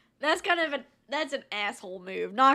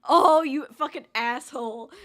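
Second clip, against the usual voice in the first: loud outraged outburst; loud exclamation; 9 dB louder than usual. Real, not acted. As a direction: blurt it out loud. Reacting to rude story.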